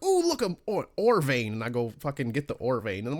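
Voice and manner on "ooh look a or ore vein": high, gushing "ooh" at a flower; a gamer cooing at every shiny thing; mock delight. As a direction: squeal with sudden distracted wonder. Voicing his distracted self.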